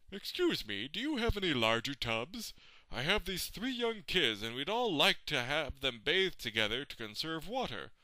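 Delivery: lightly voiced polite shopper; imagined customer. Imagined parent asking a tub seller, lightly put-on politeness.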